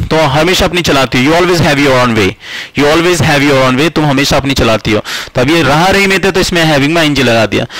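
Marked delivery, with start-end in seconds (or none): 1.3-3.9 slow model sentence. Shown as a demonstration. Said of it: "teacher models sentence slowly".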